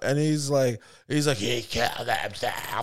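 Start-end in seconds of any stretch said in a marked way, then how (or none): 1.4-2.8 slow, drawn-out imitated moan; mock crying. Freaked-out bandmate told to chill out, slow mock-crying moan. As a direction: moan it out slowly, mock distraught. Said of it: "starts hysterically crying".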